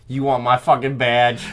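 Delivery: put-on Boston accent. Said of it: "can you have a thick Boston accent".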